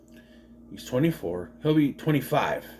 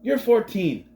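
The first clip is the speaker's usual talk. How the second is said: mock disbelief; 10 semitones higher, 4 dB louder than usual. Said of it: "I'd be like".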